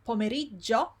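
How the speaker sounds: pomeriggio with a held, hard dj; double G. Shown as a demonstration. Teacher recalls the word seen, clear double G. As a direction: hold the gg in pomeriggio before releasing. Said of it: "there are two G's there".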